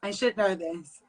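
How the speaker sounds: hushed, voiceless self-reproach; under the breath, whispered; whispered aside. Real, not acted. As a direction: whisper it to yourself.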